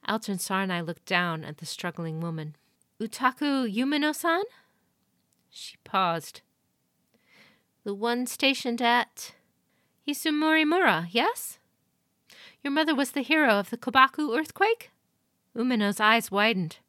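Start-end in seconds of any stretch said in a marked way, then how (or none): 3.0-14.9 higher, louder, measured inquiry; lady of the castle recognising a visitor; noble lady questioning. A narrator's reading. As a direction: recall her name with interest.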